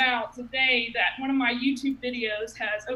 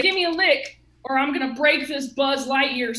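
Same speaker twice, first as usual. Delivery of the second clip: threatening demand; 5 dB louder than usual. Retold or imitated. Threatening brother.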